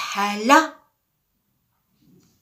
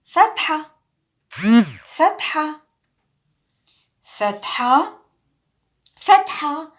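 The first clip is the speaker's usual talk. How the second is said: 1 loud drill; 6 semitones higher, 7 dB louder than usual. Shown as a demonstration. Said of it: "teacher drills fatha loudly".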